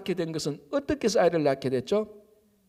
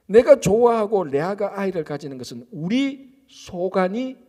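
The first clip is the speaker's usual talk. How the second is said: a hint of a husband reassuring his wife, rising to louder insistence; lightly voiced pleading husband; 3 semitones higher, 3 dB louder than usual. Jacob voiced pleading with Rachel. (아내를 달래며 호소하는 남편 목소리)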